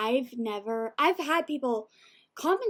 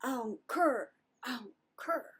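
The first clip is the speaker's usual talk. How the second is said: lightly imitated flat dismissal; flat dismissive imitation. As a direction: say it like you couldn't care less. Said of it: "and he goes".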